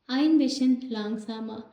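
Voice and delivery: very slow, word by word; stretched-out classroom German; slow teaching demo. Shown as a demonstration. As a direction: model it slowly for the class. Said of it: "teacher demonstrating German phrase".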